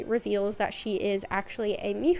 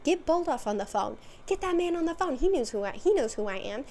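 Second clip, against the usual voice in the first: Karen demand; 4 semitones higher than usual. Retold or imitated. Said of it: "She is Karening out".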